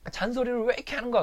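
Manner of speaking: high and fast, fed up with nagging; exasperated yell. Retold or imitated. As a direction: fire it back, high and quick. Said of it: "그래서 뭐라 그랬냐면".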